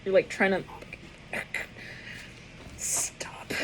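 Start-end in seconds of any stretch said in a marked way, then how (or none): 2.8-3.5 stop. breathed out with no voice; whispered stop. Retold or imitated. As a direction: mouth it to a friend under your breath. Under-breath stop to friend.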